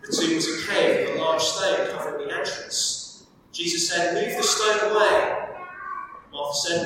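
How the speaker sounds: measured, steady Bible reading to the congregation; reading aloud from the Gospel; scripture reading. Acted. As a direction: read the passage with care. Preacher reads scripture passage aloud.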